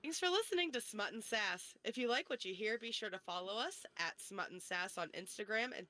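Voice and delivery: scripted sign-off with lilting phrase endings; podcast outro read. Acted. Host thanking listeners and plugging socials, scripted outro read.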